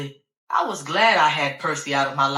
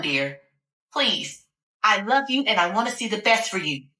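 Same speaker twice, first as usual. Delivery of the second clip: pleading doctor; 3 semitones higher than usual. Acted. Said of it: "She kept pleading with me".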